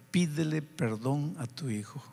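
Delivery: gentle inner voice. Retold or imitated. The Spirit speaking to a father's heart, gently urging. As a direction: counsel softly, like a voice in the heart. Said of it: "sentí una voz aquí en mi corazón".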